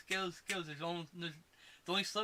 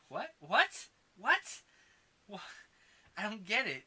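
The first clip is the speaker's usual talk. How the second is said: rising, louder and higher incredulous whats; baffled Obama gif; 6 semitones higher, 5 dB louder, slower than usual. Retold or imitated. Reacting to the terrible line, louder and higher disbelief. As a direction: mime a baffled double take. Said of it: "the Obama gif of".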